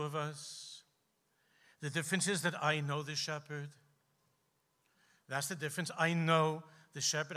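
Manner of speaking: low, hushed, measured reply with long pauses; softly voiced old rabbi, low and unhurried; old rabbi's quiet answer. Old rabbi gently answers young man.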